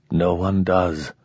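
soft and slow, a touch gentle; a killer softly telling his twin that nobody wants to die; gently. Acted. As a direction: let it land softly. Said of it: "Ramon said gently".

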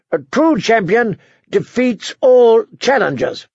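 high, slow, grandiose announcement; pompous royal challenge; proclaiming young king. A narrator's reading. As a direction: declare it slowly to the hall, pitched high.

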